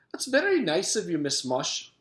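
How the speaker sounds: a pleasant Scottish gentleman's call; pleasant stolen voice. A narrator's reading. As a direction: sweetly answer the door. Mister Gorf pleasant.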